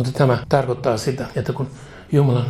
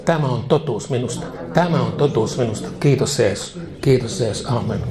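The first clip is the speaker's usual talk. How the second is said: led prayer. Acted. Preacher leads prayer to repeat.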